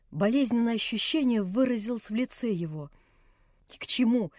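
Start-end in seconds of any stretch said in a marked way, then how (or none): 3.7-4.3 put-on higher, louder frantic girl's scream; frenzied cry. A narrator's reading. Nelli in a frenzy refusing everyone, frantic cry. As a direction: cry out beside herself. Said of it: "вскрикнула вдруг Нелли в каком-то исступлении".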